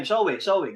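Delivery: "soe, soe" as "so-weh, so-weh"; local pronunciation. Shown as a demonstration. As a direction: repeat "soe, soe" with open Filipino "weh" endings. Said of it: "Pero tayo dito sa end time". (bigkas-Pilipino na "soe, soe", parang "so-we")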